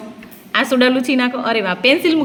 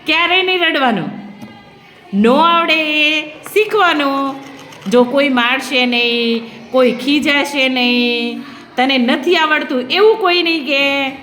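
reassuring. Real, not acted. Teacher comforting crying new pupil.

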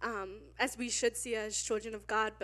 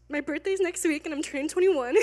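real laugh breaking into a high squeal; laugh-cry about turning twenty-one; louder tearful laugh; laughing through tears; 7 semitones higher, 5 dB louder than usual. Real, not acted.

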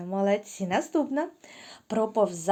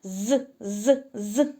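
mosquito buzz; much slower than usual. Shown as a demonstration. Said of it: "Повторили ще раз".

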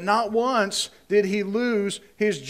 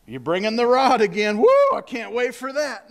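mock cheerful sarcasm, a little louder; sarcastic; 3 semitones higher, 5 dB louder than usual. Paul dreading the rod, in mock cheer. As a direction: fake enthusiasm about another beating. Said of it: "He's like".

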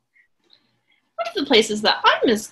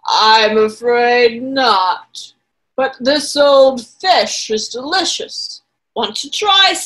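slow crocodile voice; 6 dB louder, slower than usual. Acted.

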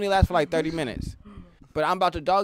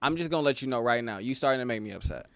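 calm warning; 5 semitones lower than usual. Retold or imitated. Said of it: "hit you with a".

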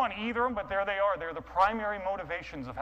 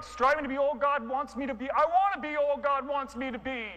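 higher, rising eager repeat; 8 semitones higher, 4 dB louder than usual. Acted. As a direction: grab it like a new motto. Eager yes to the sign.

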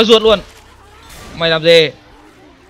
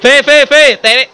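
laughing through the words; giggling while calling out; 7 semitones higher, 4 dB louder than usual. Real, not acted. Laughing at a game kill.

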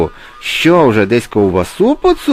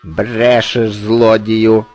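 raised, higher accusing call; crow's cry; 4 semitones higher, 5 dB louder, much slower than usual. A narrator's reading. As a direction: call out the liar as an indignant crow. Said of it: "крикнула ворона". (обурений вигук ворони)

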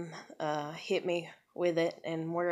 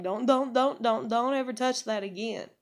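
urgent pleading; 5 semitones higher than usual. Retold or imitated. Begging daughter not to touch.

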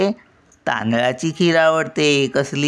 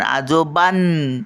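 "आजोबां," slow, ending on a long held "बां"; बां उचलून; slower than usual. Shown as a demonstration. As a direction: stop on the humming nasal of "आजोबां,". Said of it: "बाला आपण उचलून धरतो". ("आजोबां," बां लांबवून थांबा)

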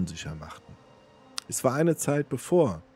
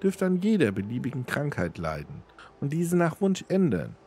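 high, put-on woman's voice; beggar princess granting powers; 7 semitones higher than usual. A narrator's reading. Namira grants Almos her powers, in a high woman's voice. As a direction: pronounce the gift in a much higher female voice.

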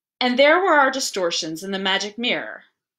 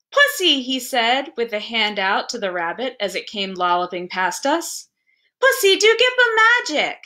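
put-on small boy calling; 2 semitones higher than usual. Small boy calls to rabbit.

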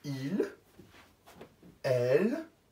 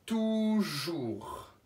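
Toujours drawn out syllable by syllable; Toujours, each syllable stretched; slow dictation word. Shown as a demonstration. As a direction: dictate Toujours slowly to children. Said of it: "Je vous laisse un petit peu plus de temps".

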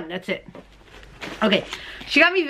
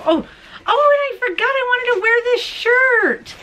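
sudden remembering; 13 semitones higher than usual. Real, not acted.

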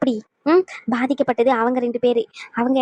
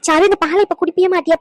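louder, higher, insistent order as a question; raised-voice demand; 4 semitones higher, 5 dB louder than usual. Acted. Grandmother pushing the girl to drink milk, raised voice. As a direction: press the child to obey, voice raised. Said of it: "ஏன் கத்துறீங்க?".

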